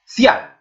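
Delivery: cial said as one separate, high beat; isolated syllable. Shown as a demonstration. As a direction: set "cial" apart as a single syllable. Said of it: "formada por tres sílabas".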